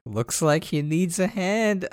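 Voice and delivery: pun delivery. Retold or imitated. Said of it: "I was like".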